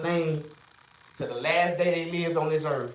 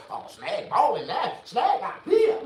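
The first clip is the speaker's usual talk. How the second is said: sneering, higher and slow on the second line; mock tattletale voice; mocking gossip; 5 semitones higher than usual. Mocking gossip about him.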